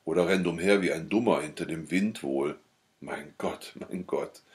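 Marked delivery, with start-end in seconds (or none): 3.0-4.4 leise, gequält vor sich hin seufzen; schmerzlich stöhnend. A narrator's reading. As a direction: deutlich leiser, wie ein wehes Stöhnen. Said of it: "stöhnt sie schmerzlich vor sich hin". (leise schmerzliche Klage)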